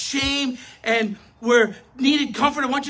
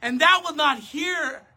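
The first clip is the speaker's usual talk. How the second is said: pleading cry; 3 semitones higher, slower than usual. Acted. Prophet's lament quoted.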